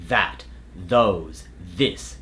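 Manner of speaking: "that, those, this" with a buzzing voiced TH. Shown as a demonstration. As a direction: voice the TH at the start of "that", "those", "this". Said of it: "A voiced T H sound include words like".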